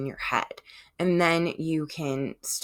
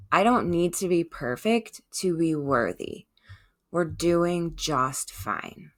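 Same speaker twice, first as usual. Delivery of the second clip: gentle reassurance. Pretend. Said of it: "Try responding gently".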